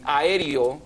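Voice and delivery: "aéreo" said as "a-E-rio"; "aéreo" with its last e slid into an i; common mispronunciation. Shown as a demonstration. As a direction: turn the end of "aéreo" into one syllable, "rio". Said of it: "oralmente pronunciamos aéreo".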